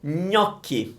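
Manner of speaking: gnocchi with a nasal Italian gn; Italian gn sound. Shown as a demonstration. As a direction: say gnocchi through a scrunched nose. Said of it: "curl up your nose and make an ugly face".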